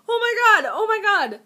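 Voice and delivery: retold frantic oh my god; reliving her makeup panic; panicked. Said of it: "in my moment of sheer panic going".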